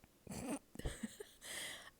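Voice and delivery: big whispered yawn. Real, not acted. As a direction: let out a long yawn. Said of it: "I literally have to yawn".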